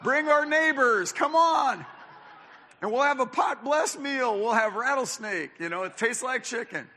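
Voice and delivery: high, loud, hammed-up mock preacher; mocking snake handlers. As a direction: lampoon the snake handlers, shouting and laughing. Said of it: "How does a group find a box of snakes and go".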